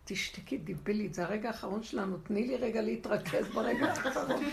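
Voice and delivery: understated, comic exasperation; deadpan irritated husband. Acted. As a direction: shush a hysterical wife with weary restraint. Acted husband hushing screaming wife.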